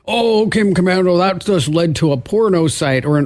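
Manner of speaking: a lightly voiced whiny listener complaint; mock the angry emailer a little; mock complaining listener. Host mocking a nasty email from a listener, lightly whiny. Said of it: "somebody writes me a nasty email and says".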